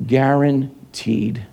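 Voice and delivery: Guaranteed. stretched out slowly, each syllable held; slow emphatic Guaranteed. echoing the catchphrase; drawn-out echo. Retold or imitated. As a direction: draw out Guaranteed. the way the host said it.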